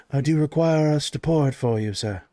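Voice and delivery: lightly voiced formal butler; a touch of polished waiter; deferential servant. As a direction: offer service with measured courtesy.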